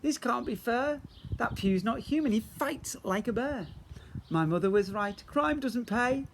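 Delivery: high, panicky crook's complaint; high and frantic, slowing on crime doesn't pay; panicked whine. Acted. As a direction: wail it out as the fight is lost. Billy panics after the fight.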